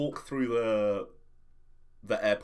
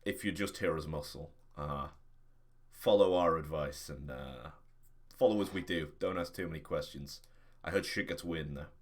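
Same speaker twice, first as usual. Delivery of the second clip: a touch lower and quieter, confiding advice; lightly played guard giving a low-key warning; lightly voiced security guard; 5 semitones lower, 3 dB quieter than usual. Guard advising the hired muscle before the scanner, lightly voiced, low-key warning.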